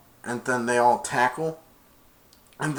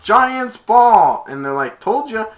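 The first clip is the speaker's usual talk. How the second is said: high, loud taunt; gloating shout; 9 semitones higher, 11 dB louder, slower than usual. Retold or imitated. Players taunting the other side, loud and high. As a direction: rub it in.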